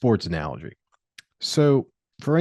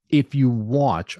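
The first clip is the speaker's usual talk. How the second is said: sports announcer; slower than usual. Shown as a demonstration. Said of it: "I sound like a sports announcer now".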